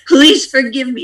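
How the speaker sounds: a pleading Please forgive me. Shown as a demonstration. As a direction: plead it out openly. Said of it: "You can plead out".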